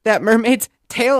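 put-on high, slow whining toddler. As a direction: drag it out like a bratty toddler. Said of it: "She's like".

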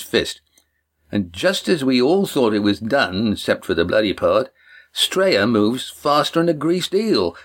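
lightly voiced boastful youth spinning a yarn; lively storyteller Cam. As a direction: tell it like a proud tall tale, rising on the big moments. Cam tells the cliff story.

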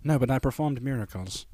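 mock British Jesus, softly spoken; British accent. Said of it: "Jesus is British".

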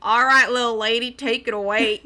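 put-on cowboy voice; mock cowboy. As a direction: hand over like a pretend Texan cowboy. Mock cowboy to little lady.

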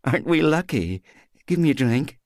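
put-on high, overexcited and a little drunk; mock delight to cover her despair; tipsy giddiness. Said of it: "Polly was laughing quietly".

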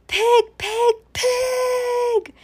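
loud, high furious yell; shout. A narrator's reading. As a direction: yell at the pig in rage. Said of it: "shouted Eugenia".

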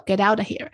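"get out of here" run together; linked pronunciation. Shown as a demonstration. Trying out American linking, joined "get out of here". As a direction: link every word of "get out of here". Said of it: "美国人的连音".

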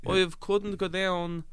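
high, slow hammed-up Cockney; Cockney accent. Shown as a demonstration. Actor retrying his London line, slow high Cockney. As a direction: stretch it out in a put-on East End accent. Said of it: "Cockney accent".

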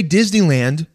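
"Disneyland" in plain broad American English; mock American pronunciation of "Disneyland"; super Englishy American accent. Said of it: "super Englishy".

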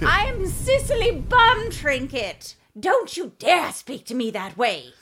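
haughty high slow grande dame voice; aristocratic lady Cicely. Pretend. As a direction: play a snooty old-school aristocrat, drawn out. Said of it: "like a old school aristocratic woman".

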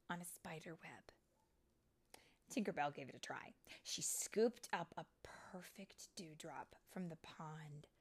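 animated read-aloud with lingering key words; storybook narration. A narrator's reading. Storyteller reading fairy tale to children, animated narration. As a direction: tell it dramatically to young children.

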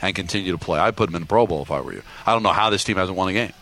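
lightly voiced earnest coach; Daboll impression. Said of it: "he's morphing into that guy".

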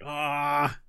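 mild fussy complaint; Buttons grumbling. Acted. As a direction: fuss over the ink. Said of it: "and he's like".

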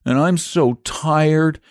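put-on high, aggrieved small boy; acted tearful child voice; tearful complaint. A narrator's reading. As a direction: pour out the grievance, close to breaking down. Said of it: "here he broke down again".

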